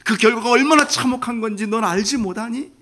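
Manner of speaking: rising, aching plea; a father hurting as he asks; heartbroken father. Acted. Father grieving over his son's sin, aching plea. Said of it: "아빠가 가슴이 너무 아파가지고".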